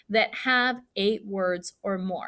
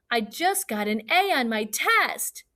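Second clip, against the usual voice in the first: lightly excited exclamation; 3 semitones higher than usual. Shown as a demonstration. Fourth grader announcing a good test grade, excited. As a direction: share good news with a lift of excitement. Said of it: "You would be excited".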